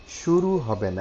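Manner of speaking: high, loud correcting no; firm correction. Real, not acted. Teacher correcting a student's reading, firm. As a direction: stress না sharply to correct the student. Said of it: "এখানে একটু ভুল আছে".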